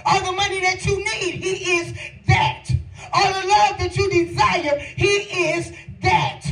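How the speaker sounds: impassioned preaching. Real, not acted. Preacher telling congregation "he is that", impassioned.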